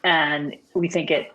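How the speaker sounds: cutting in and out; choppy broken connection; corrupted glitchy audio. Real, not acted. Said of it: "sound is cutting out".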